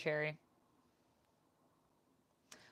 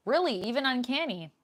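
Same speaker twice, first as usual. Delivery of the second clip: surprised; 5 semitones higher, 3 dB louder than usual. Real, not acted. Reacting to a chat comment.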